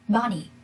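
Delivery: slow "bunny" with BUN stressed; first-syllable stress. Shown as a demonstration. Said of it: "it's easy to see that the first syllable".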